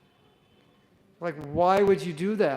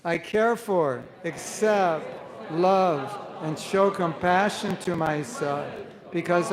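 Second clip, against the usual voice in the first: slow, louder, earnest recital; heartfelt affirmation; 3 dB louder, slower than usual. Shown as a demonstration. Teacher leading class in affirmation, earnest and deliberate. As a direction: say it like you truly live it. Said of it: "say it like you mean it".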